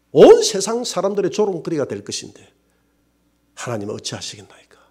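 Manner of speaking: mostly hushed, pleading to God; despairing prayer. Retold or imitated. Pastor on the rooftop begging God, hushed despair.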